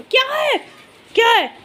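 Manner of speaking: high loud "क्या है" at the pet; loud high scolding call; sharp call. Real, not acted. Shouting at the dog.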